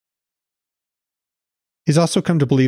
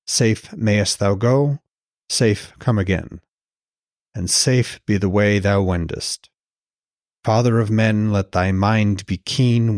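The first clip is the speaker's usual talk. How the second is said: put-on slow, measured reading of old verse; poem recitation; slower than usual. A narrator's reading. Host reciting the Bellows verse to listeners, slow and solemn. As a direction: let each line of the blessing land slowly.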